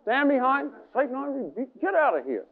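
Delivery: firm rebuke of Satan; energetic rebuke. Shown as a demonstration. Preacher to congregation, a firm rebuke of Satan. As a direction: command Satan to leave. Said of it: "a little bit of energy in it".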